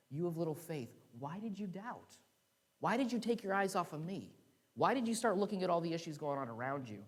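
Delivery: a hint of a high, pleading rebuke; Jesus rebuking. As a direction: ask it like a disappointed teacher.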